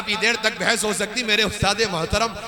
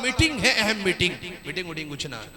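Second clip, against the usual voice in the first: mock excuse; 6 dB quieter, faster than usual. Politician dodging a voter, mock excuse fading out. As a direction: let the excuse sink to a dismissive aside.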